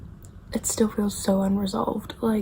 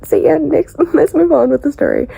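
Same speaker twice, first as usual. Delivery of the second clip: dismissive author voice; 4 semitones higher, 7 dB louder than usual. Retold or imitated. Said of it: "She's like".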